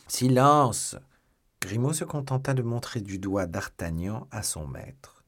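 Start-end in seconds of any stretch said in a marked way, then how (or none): 0.1-0.9 loud, raised order; commanding shout for silence; stern command. A narrator's reading. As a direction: cut the servant off sharply. Master cuts servant short.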